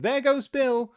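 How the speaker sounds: high, loud cheering cry; excited high-pitched holler; chorus shout. A narrator's reading. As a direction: shout it as a whole crowd would. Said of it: "a general chorus of".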